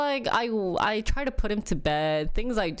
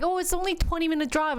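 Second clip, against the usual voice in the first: higher, quick, dismissive quote; imitating husband; 10 semitones higher, faster than usual. Wife quoting husband on the highway, quick high-pitched brush-off. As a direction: toss it off fast and high as the husband. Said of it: "He's like".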